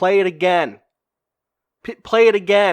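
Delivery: very loud, blunt, matter-of-fact shout. Describing people reacting after a movie, retelling crowd shouting demands. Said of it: "Some people are shouting like".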